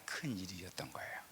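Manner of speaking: hushed whisper for the key revelation. Acted. A pastor whispering the key point to his congregation. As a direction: drop to a breathy secret, no voice.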